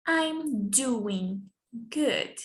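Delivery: very slow, stretched teacher model; very slow model phrase. Shown as a demonstration. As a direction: spell it out slowly. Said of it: "not doing, but doing".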